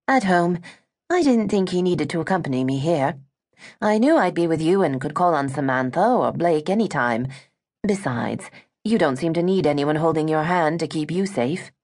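lightly voiced, proper British young heiress; a hint of a sheltered British girl defending herself; British young woman. Gwen insists to Eliza she has traveled, light British voice.

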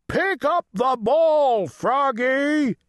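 high, urgent coach's shout; coach's yell. A narrator's reading. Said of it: "yelled the coach".

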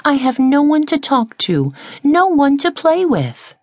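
high, small plaintive voice, a hint of tears; lightly voiced sad little caterpillar; lonely caterpillar. A narrator's reading. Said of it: "Sylvia explained".

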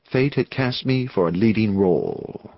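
ordinary delivery, nothing marked

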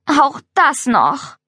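slow, exasperated sigh of words; annoyed groan. Acted. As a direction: drag it out, fed up. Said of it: "Genervt rollte er mit den Augen".

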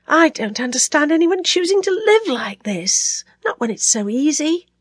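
high, drained voice with the fury gone; listless. A narrator's reading. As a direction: say it wearily, without force. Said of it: "Now she sounded listless, flat".

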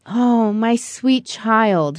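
slow, sighed tender line; sighing father. Acted. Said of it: "he sighed".

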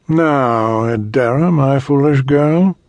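condescending tyrant voice; cold rasping evil emperor. Acted. Emperor addresses Adara.

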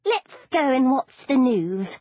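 chirpy grandmother praising her granddaughter; doting granny; old granny. Acted. Granny voiced in the story.

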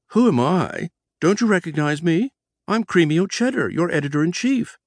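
high, annoyed squeaky voice; annoyed squeak. Acted. Editor annoyed the boss forgot her, high squeak. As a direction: squeak out your offence. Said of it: "she squeaked, sounding annoyed".

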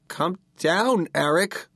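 high, urgent coaxing; anxious plea. A narrator's reading. Brother below the floating kid, pleading anxiously. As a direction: plead in a high voice without shouting.

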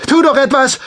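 a mother's panicked shriek; desperate scream. Acted. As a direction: scream at your son to do something. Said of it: "schrie Veleschi".

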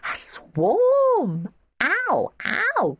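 high-pitched mock alarm; excited high childish cries; children crying out. A narrator's reading. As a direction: wail it high like panicking children. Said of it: "cried all the children immediately".

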